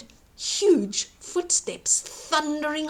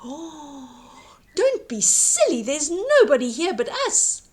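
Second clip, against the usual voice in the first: scolding giantess; 4 semitones higher, 4 dB louder than usual. Acted. Giantess scolding the giant, loud and firm. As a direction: tell him off firmly. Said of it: "the giantess scolded".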